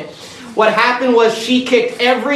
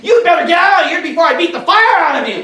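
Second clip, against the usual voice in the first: mad shout; 6 semitones higher, faster than usual. Retold or imitated. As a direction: bark it out like a furious street preacher. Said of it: "he got mad".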